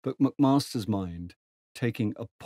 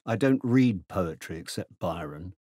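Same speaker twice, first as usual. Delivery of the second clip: contemptuous. Acted. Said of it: "Tejan's answered contemptuously".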